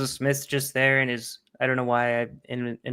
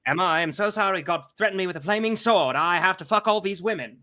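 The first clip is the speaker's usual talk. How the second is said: lightly voiced old-time radio announcer; a hint of a crisp vintage broadcaster; 1930s radio announcer; 4 semitones higher, 5 dB louder than usual. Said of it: "nineteen thirties radio announcer's voice".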